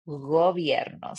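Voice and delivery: gobierno with a soft G, said slowly; soft Spanish G. Shown as a demonstration. Teacher repeating the soft G. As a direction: gently voice the G in gobierno. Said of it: "but it's soft".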